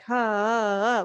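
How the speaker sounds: "ha, ha, ha" barely there, light and surface level; shallow mock haws. Shown as a demonstration. Teacher mocks a shallow vibrato, weak haws. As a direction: toss off weak little haws as the wrong way. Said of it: "It's not surface level where it's like".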